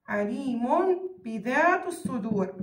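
عليم بذات الصدور slowly, with a held m before the ب; measured recitation of عليم بذات الصدور, lingering on the m; iqlab pronunciation. Shown as a demonstration. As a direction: stretch the tanween of عليم into a hummed m. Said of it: "كيف ألفظها؟".

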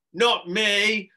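high, loud sudden outburst; a loud scared blurt. A narrator's reading. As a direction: blurt it out in panic. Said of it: "blurted Harrison".

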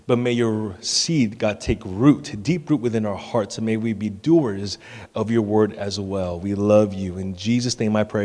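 low, even praying voice; closing prayer. Real, not acted. Pastor praying over the congregation, low and steady prayer. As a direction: pray in a subdued, measured tone.

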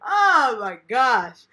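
slow, wheezing laugh-cry; can barely speak for laughing. Real, not acted. Helpless laughter at the joke.

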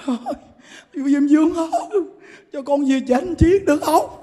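mock begging soul. Dead man begs Yama.

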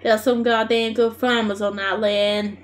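steady Australian bush delivery; Australian bush accent. Acted. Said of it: "proper Australian bush".

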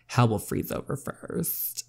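slow, soft whisper under breath; whispered aside. Acted. Teen muttering aside behind mom's back, whispered. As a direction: whisper it so mom can't hear.

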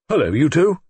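loud, high, eager hello; eager greeting. A narrator's reading. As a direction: call out to them, eager and excited. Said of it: "He looked eager and excited".

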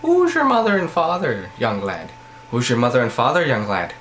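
lilting Irish brogue; a bad Irish accent. Shown as a demonstration. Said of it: "I am Irish".

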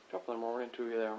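hammed-up attempt at an Irish accent; bad Irish accent. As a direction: put on a poor Irish brogue. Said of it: "Can't do an Irish accent very well".

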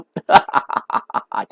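breathy laugh at own slip; amused run of laughter; real laughter. Real, not acted. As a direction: laugh it off after a slip of the tongue. Laughs at own misspoken word.

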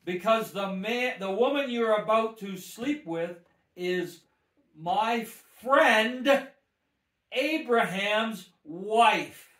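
2 loud and slow, stretching Abraham's wife; 3 pronounce judgement slowly and heavily; 4 voice of God, dragged out; 1 slow proclamation. Shown as a demonstration. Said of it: "say it like that, really slow".

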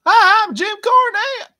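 a deliberately bad impression of a wrestling manager; bad Jim Cornette. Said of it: "I can't really do a Jim Cornette voice".

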